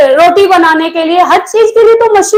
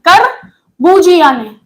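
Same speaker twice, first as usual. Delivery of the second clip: करबूजिया ने said slowly, each syllable drawn out for dictation; करबूजिया dragged slow and clear; slow, spelled-out name; slower than usual. Shown as a demonstration. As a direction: stretch out करबूजिया so students can write it down.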